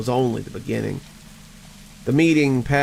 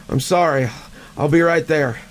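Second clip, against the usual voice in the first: flustered apology; 4 semitones higher, 3 dB louder than usual. Acted. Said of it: "I stammered".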